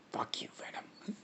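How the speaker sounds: hushed, whispery monster snarl; Carnage. Acted. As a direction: curse under the breath as a growling creature. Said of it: "Carnage kinda growls".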